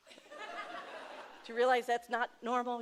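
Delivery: slow question broken by a laugh. Retold or imitated. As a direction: laugh through it while teasing. Friend teasing her, laughing.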